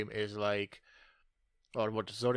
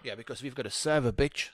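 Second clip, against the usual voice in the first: cocky gloat; 3 semitones higher, 5 dB louder than usual. Pretend. Gloating joke about Linux winning.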